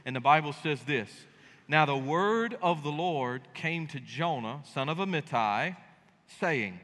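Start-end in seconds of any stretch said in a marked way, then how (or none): 1.7-6.8 scripture reading. Acted.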